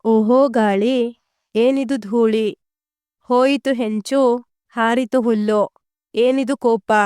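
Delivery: mildly dramatic reading of the poem's cries; expressive recitation. Shown as a demonstration. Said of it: "ಧ್ವನಿಪೂರ್ಣವಾಗಿ ಉಚ್ಚರಿಸಿರಿ".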